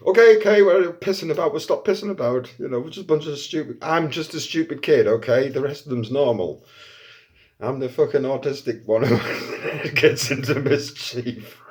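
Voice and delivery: high, loud, mock-meek apology; sheepish kid pleading. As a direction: grovel like a caught kid. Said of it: "we're, like, fucking saluting".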